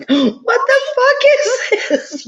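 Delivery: very high, drawn-out squeal of mock shock, laughing; shocked disbelief. Retold shock at waking up.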